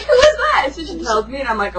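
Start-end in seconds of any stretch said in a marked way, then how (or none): 0.0-0.7 high, loud demand; excited outburst; frantic retold question. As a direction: ask it in a raised, urgent pitch. Retold question during freak-out.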